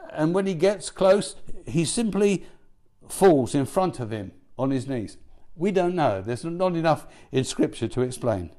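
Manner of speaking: normal talking voice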